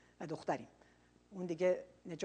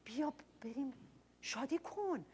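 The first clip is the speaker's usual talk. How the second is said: pleading father; 3 semitones higher, 8 dB quieter, slower than usual. Retold or imitated. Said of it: "التماس میگه بهش کرد".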